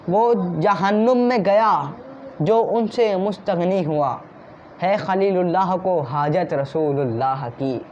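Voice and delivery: slow, drawn-out poetic recitation of the verse; recited couplet. Shown as a demonstration. Preacher reciting a poet's couplet to the congregation, slow and measured. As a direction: savour each line of the couplet slowly. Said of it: "शायर क्या खूब फरमा रहे हैं".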